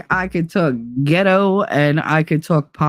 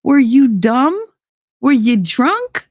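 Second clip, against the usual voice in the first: scolding herself; 7 semitones higher than usual. Retold or imitated. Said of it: "things where I'm like".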